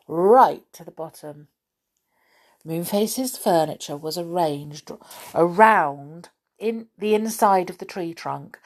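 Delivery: lively read-aloud storytelling; story narration. A narrator's reading. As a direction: paint the odd room for young listeners. Reading a children's story aloud.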